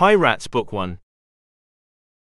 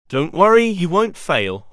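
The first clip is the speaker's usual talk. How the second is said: encouraging; 5 semitones higher than usual. A narrator's reading. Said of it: "Horace encouraged".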